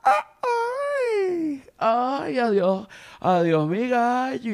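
very high fading "ay", then slow "adiós"; camp rooster farewell. Retold or imitated. Rooster calls goodbye from afar, high and slow. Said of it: "a lo lejos".

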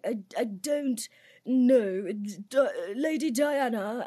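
slow, halting mock royal English; Prince Charles. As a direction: stammer it out in a drawn-out posh accent. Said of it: "Prince Charles speak".

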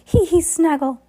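high, loud mocking giggle; villain's fake laugh. A narrator's reading. Olaf cackling in agreement, high mock giggle. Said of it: "Olaf cried in agreement".

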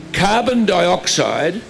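slow, deliberate and drawn out; said slowly. Shown as a demonstration. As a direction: spell it out slowly for the crowd. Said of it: "you've got to say this slowly".

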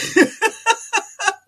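high, loud burst of laughter; helpless high-pitched cackle; laughing. Real, not acted. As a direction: crack up at your own joke. Laughing at own joke.

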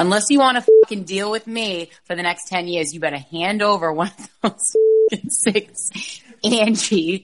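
tough Boston inmate demanding cigarettes; Boston accent. Pretend. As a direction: threaten them in a thick Boston accent. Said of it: "with your Boston accent".

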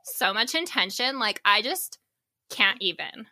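put-on lilting, rising Valley Girl talk. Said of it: "I'm gonna talk more like a Valley Girl".

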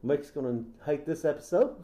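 mock-Kiwi storytelling, lifting at the end; New Zealand accent. Host riffing on a robot owner, New Zealand accent. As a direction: spin the tale in a Kiwi accent. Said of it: "doing more of a New Zealand".

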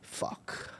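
whispered curse after a long pause; hushed, drawn-out dismay; dad's sudden realization. Retold or imitated. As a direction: imitate a dawning oh-no, trailing into a whisper. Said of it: "while he does this, he goes".

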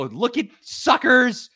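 slow, drawn-out gloat; gloating taunt. Retold or imitated. Fan taunting beaten rivals, slow gloat. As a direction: rub it in their face. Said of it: "and go".

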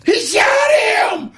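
high cracked yell of shock; voice cracking high. Retold or imitated. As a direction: scream it in a panicked falsetto. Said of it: "my voice went up eight octaves".

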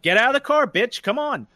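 high-pitched mock angry order; angry challenge. Driver daring the man to fight, mock angry challenge. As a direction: goad him out, acting worked up.

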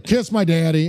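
lightly voiced unwilling winner; reluctant older man. Sixty-year-old winner dodging the required phrase, lightly acted reluctance. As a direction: give the phrase up grudgingly, half-heartedly. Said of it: "simply will not yell".

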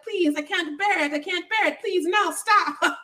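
high, hammed-up pleading; imitating her endless overblown begging; mock dramatic protest. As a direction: whine the plea over and over. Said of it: "her being like".

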